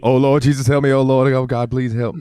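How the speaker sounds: hammed-up cry to the Lord; Eddie Murphy's mom. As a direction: wail for help like a mom tumbling downstairs. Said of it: "Eddie Murphy's mom falling down the stairs".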